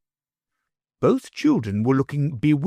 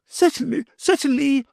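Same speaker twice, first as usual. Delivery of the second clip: higher, eager agreement. A narrator's reading. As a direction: jump at the dinner offer. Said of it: "the Baron eagerly assented".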